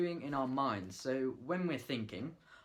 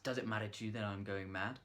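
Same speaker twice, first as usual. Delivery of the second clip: rattled off quickly; fast. Shown as a demonstration. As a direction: say it fast, no pauses. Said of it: "We can say it fast".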